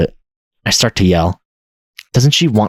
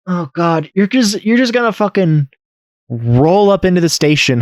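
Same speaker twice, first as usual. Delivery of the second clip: high, fast exasperated rant; incredulous rant; 10 semitones higher than usual. Real, not acted. Gamer ranting at his character, high and fast. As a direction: roast the lazy killer.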